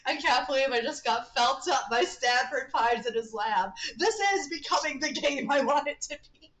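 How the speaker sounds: loud, emphatic delight at the game; excited exclamation. Real, not acted. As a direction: exclaim it loudly, punching the words. Streamer exclaims over game turn.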